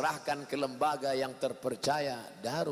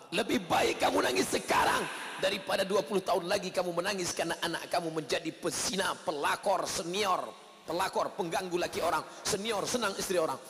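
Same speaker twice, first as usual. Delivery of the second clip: a stern husband lecturing, ending in a shout; father advising wife. Acted. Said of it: "kata si bapak menasihati istrinya".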